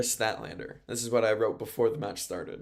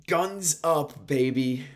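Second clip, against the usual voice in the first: higher, louder catchphrase call; hype catchphrase; 5 semitones higher, 5 dB louder, much slower than usual. Pretend. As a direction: shout it like a fan at ringside. Calling out a team's catchphrase.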